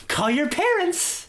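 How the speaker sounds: high, slow dragged command; stern order. Retold or imitated. Angry dad telling the girl to call home, high slow order. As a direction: make it a stern, drawn-out order.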